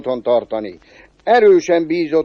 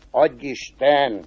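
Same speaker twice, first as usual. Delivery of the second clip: curt reply; 2 semitones lower, slower than usual. Acted. Cobbler answering the devil's greeting, mildly curt. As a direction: return the greeting with little interest. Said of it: "fogadta a szőcs nagy kurtán".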